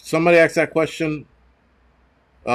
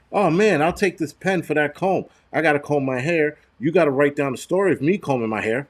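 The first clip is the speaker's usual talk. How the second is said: mock trader voice; 3 semitones higher than usual. Acting out an old barter trade.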